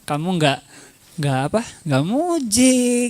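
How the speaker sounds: lightly acted complaint to a partner; a hint of wounded nagging; mock reproach. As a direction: playfully chide a partner for neglect. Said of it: "jadi ditegur aja".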